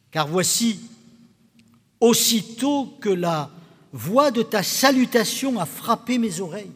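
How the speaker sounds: measured Gospel reading with long pauses; scripture reading. A narrator's reading. Pastor reading the Visitation to the congregation, measured scripture reading. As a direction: read it out solemnly, phrase by phrase. Reads the Gospel passage aloud.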